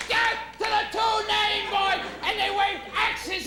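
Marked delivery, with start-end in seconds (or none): 0.1-2.0 high-pitched mob war cry; hammed-up death chant; mock screaming. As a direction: chant it like a bloodthirsty horde, played for laughs.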